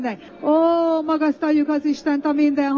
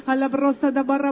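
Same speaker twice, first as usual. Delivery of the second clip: speaking in tongues. Shown as a demonstration. Pastor prays in tongues to help a believer join. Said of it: "segítek neked".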